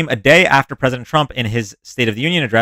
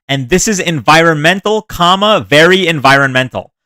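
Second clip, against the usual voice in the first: higher, louder mock Trump; 4 semitones higher, 5 dB louder than usual. Streamer mocking the president's tweet to chat, louder and higher. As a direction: puff up each environmental like a boastful president. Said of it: "that's how he speaks".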